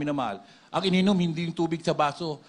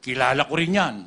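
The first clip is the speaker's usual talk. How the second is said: big demon voice; 4 semitones lower, 3 dB louder than usual. Retold or imitated. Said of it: "Malaki yung boses".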